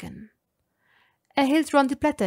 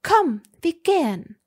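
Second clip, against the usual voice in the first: higher and louder, insistent; demanding call; urging; 7 semitones higher, 6 dB louder than usual. A narrator's reading. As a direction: push him to leave now.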